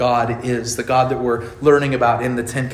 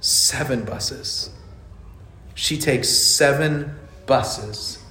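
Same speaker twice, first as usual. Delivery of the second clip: through sobs; 3 dB quieter, much slower than usual. Retold or imitated. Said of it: "as he gasps through the sobs".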